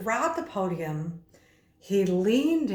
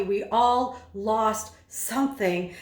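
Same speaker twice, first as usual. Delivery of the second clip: slow, every word marked out with rhythm; rhythmic emphasis; slower than usual. Shown as a demonstration. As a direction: beat the rhythm of each word. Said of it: "accentuated or articulated with the rhythm".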